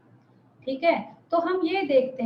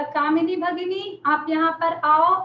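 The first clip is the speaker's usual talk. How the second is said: calling someone; 3 semitones higher, 3 dB louder than usual. Shown as a demonstration. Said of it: "मेरा intonation से आपको पता चलता है कि मैं किसी को बुला रही हूँ".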